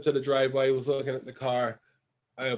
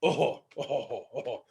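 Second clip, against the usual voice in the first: imitated Russian-accented groaning; mock groans from a Russian man; 2 semitones lower, 4 dB quieter, slower than usual. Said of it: "have an accent when they make a".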